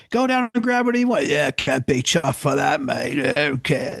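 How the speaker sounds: mock British accent, starting high and rushed; too-cool British band. British band turns down free records, mock British accent. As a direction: play a too-cool Brit in a put-on accent. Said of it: "British bands ... they're too cool".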